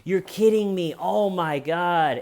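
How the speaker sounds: high, stunned gasping disbelief; horrified at what his dog did; shocked oh my God. Retold or imitated. Dog owner hears about the bite, high shocked disbelief. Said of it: "he's going".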